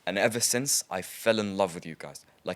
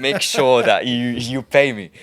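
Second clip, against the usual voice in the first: loud callout; 9 dB louder than usual. Real, not acted. Calling out the company owing him.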